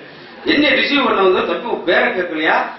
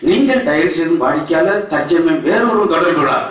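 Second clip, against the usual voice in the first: flat recorded phone operator; computer voice. Retold or imitated. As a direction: read it like an automated announcement. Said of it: "ஒரு computer voice".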